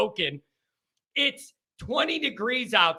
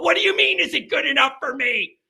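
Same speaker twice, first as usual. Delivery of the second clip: outraged; 4 semitones higher, faster than usual. Retold or imitated. Choking boyfriend at Thanksgiving dinner, outraged outburst. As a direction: blow up in disbelief.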